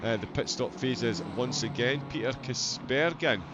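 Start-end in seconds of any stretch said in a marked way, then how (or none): 2.1-3.4 mock Dutch accent. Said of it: "a Dutchman sneak into my commentary box".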